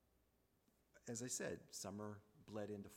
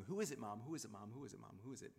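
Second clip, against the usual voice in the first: rapid-repeat nagging questions, lightly mimicked; retold pestering that tails off; imitating a hectoring; faster than usual. Sister pushing mom to name the visitor, hectoring. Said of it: "more hectoring and pestering and badgering".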